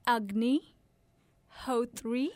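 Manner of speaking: Agni as UG-nee, Hotri as HOH-three; name pronunciation demo. Shown as a demonstration. Guest teaches interviewer her surname, Agni and Hotri as separate rising pieces. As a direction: sound out Agni, pause, then Hotri, each lifting at the end. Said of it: "do you want me to pronounce it".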